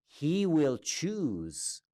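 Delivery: hushed promise. Acted. Conductor's hushed answer.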